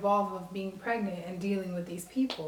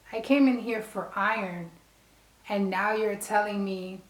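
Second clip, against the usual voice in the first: a touch of mock outrage, spoken deliberately; retold outrage. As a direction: push back, stunned and indignant.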